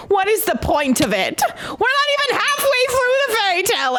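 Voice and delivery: annoyed storyteller venting; exasperated rant. Real, not acted. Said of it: "I'm still very angry about it".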